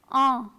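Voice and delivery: Ah as a French nasal vowel. Shown as a demonstration. Teacher models the first nasal sound for students, nasal vowel. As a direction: let Ah resonate through the nose. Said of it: "the ah sound".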